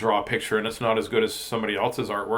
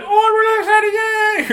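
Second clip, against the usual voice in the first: much higher, louder, squealing cartoon beard; a tiny beard cheering at its owner; squeaky talking beard; 9 dB louder than usual. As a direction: play the giddy little beard voice. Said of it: "if things are just like".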